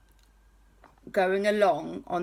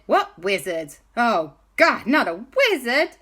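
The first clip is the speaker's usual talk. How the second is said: louder, higher pirate-cat dismay; Kwazii alarmed; 4 semitones higher, 5 dB louder than usual. Acted. Kwazii hears of the wizard, higher, louder dismayed cat voice. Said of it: "And Kwazii said".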